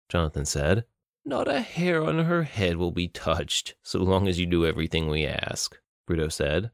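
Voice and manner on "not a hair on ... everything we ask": suppressed smile. Acted. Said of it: "fighting back a smile".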